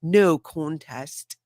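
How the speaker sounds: slow, hammed-up English accent; bad English accent. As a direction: attempt an English accent, stretching both words. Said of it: "That's a horrible English accent".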